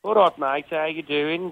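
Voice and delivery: casual Black Country greeting, sing-song; a light Black Country lilt; Black Country accent. Shown as a demonstration. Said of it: "And what's the black country accent like?".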